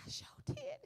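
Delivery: put-on aunt answering the five-year-old in a high, teasing voice; playful sing-song reply. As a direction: answer the kid with a playful lilt. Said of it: "I was like".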